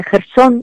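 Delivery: Gerson stressed on the last syllable, gerSON; correct Kherson pronunciation. Shown as a demonstration. Guest shows the right form, Gerson with final stress. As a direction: put the stress at the end of Gerson. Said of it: "en vez de Gerson".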